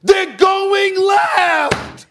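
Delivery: slow, drawn-out yelled warning; mock crowd yell. Host imitating fans yelling a warning to defenders. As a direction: stretch it out like fans hollering from the stands. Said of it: "people are screaming at them".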